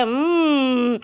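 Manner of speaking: licking lips over a favourite treat; delighted at the food. Acted. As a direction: savour it, then burst out happy. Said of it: "मुस्कुराता है".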